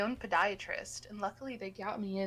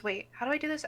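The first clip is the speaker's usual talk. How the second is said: higher-pitched puzzled question; clueless new nurse; 5 semitones higher, faster than usual. Retold or imitated. New nurse facing a boot she can't fit, clueless. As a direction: ask it like a lost beginner. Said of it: "very obviously new".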